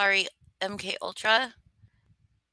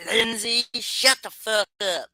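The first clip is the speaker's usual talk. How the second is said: mock yell; 3 semitones higher, 4 dB louder than usual. Joking greeting yelled at chatter.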